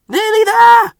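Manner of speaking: loud, high excited call; urgent cry near the finish. A narrator's reading. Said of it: "cried Percy's driver".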